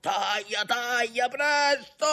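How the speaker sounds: high cry climbing to a long wail; urgent shouted order. A narrator's reading. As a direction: urge them on, rising in pitch. Urgent order to cut rope. (ordine urgente, gridato in crescendo)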